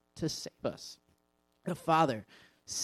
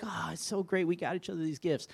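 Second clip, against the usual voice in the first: mock gushing; 4 semitones higher than usual. Mocking commercial couple.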